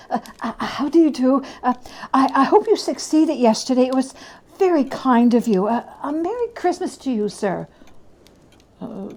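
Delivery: put-on an old miser tripping over his apology; flustered, eager Scrooge. Scrooge begging the gentleman's pardon, stammering and eager.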